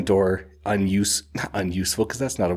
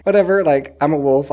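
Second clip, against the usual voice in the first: cocky wolf voice; 6 semitones higher, 5 dB louder than usual. Retold or imitated. Night Eyes voiced in retelling.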